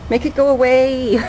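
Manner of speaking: a high, half-playful whiny plea; mock whine. Telling viewers she wants the snow gone, mock whine.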